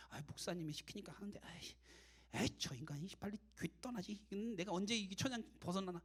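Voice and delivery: soft, half-whispered mock resentment; muttered grumbling. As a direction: grumble under your breath. Voices a team member's resentful thoughts.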